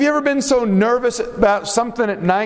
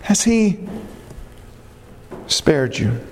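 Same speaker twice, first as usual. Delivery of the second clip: pleading call; 6 semitones higher than usual. Acted. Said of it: "He cries out".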